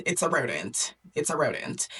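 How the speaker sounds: low, firm mock-royal refusal; lightly voiced stern king. King refusing his daughter's pet, lightly acted low sternness.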